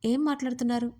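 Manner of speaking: can't believe what she heard; surprised. Acted. Yajna reacting to Rishi's teasing, mildly astonished. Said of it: "ఆశ్చర్యంగా చూస్తూ".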